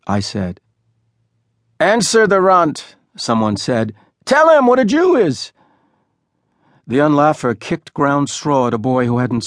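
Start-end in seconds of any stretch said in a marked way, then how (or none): 1.8-5.5 high, loud bossy order; a loud high gang boy; loud demand. A narrator's reading. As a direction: make him answer the runt. Boys demand an answer.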